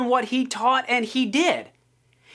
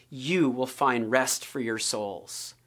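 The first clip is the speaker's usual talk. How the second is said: gentle invitation; 9 semitones lower, 6 dB quieter, slower than usual. Retold or imitated. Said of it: "And Jesus goes".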